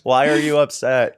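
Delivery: high, loud monotone cartoon voice; Caleb. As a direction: imitate an oblivious cartoon kid. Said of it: "You sounded like Caleb off of".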